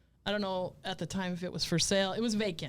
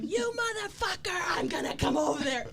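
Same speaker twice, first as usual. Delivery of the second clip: high-pitched threatening shout; re-enacted furious outburst; retold enraged yelling; 10 semitones higher than usual. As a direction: holler it at someone over a fence. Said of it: "yelling at him".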